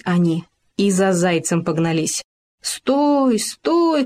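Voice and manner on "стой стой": high yelling after a runaway; shouting stop. A narrator's reading. Hamster and gopher chase the hare, yelling high. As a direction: holler after him to stop. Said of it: "кричали".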